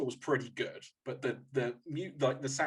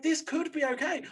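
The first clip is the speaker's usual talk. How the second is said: tentatively hopeful; 12 semitones higher than usual. Retold or imitated. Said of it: "I was just sat there watching it going".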